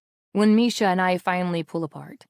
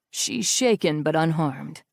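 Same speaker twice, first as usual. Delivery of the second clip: restrained triumph; 4 semitones lower than usual. A narrator's reading. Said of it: "restrained but triumphant".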